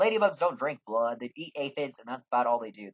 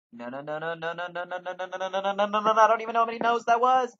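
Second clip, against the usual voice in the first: no's climbing higher and louder till they burst; building panic; 7 semitones higher, 6 dB louder than usual. Acted. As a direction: spiral from mutter into frantic loud panic.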